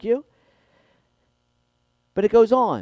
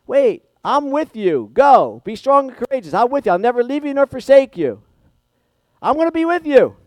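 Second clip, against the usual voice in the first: emphatic God; 7 semitones higher, 6 dB louder than usual. Retold or imitated. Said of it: "It's like".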